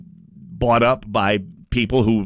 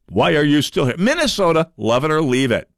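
Richard Karlbaum impression. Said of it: "excellent Richard Karlbaum impression".

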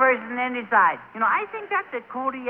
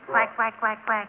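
quacking like a duck. Shown as a demonstration. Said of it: "you have to quack like a duck".

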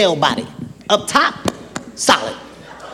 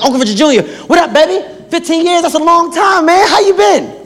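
higher-pitched, excited hello to uncle; hyped greeting; 8 semitones higher than usual. Retold or imitated. Nephew greets uncle home after fifteen years, hyped. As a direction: greet him like a long-missed favorite. I'm hyped to see him.

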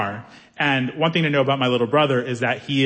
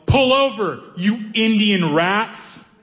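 mock yell; 5 semitones higher, much slower than usual. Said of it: "he yelled".

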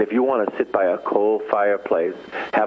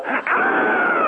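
very high thrilled shriek; mock shriek of joy. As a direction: squeal as if winning the jackpot. Reacting to winning a million.

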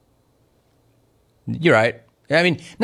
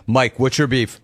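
normal talking voice

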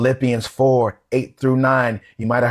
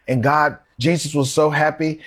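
usual speaking voice

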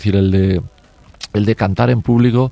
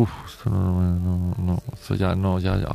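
much softer, a little lower, halting refusal; uneasy self-talk; 3 semitones lower, 9 dB quieter than usual. Retold or imitated. Telling the interviewer how a bad feeling stops him, hushed and uneasy. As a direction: back away quietly in broken repeats. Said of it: "me da así como mal rollo".

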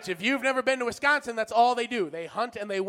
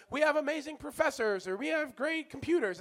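boastful college promo; 6 semitones higher than usual. Retold or imitated. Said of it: "where, like".

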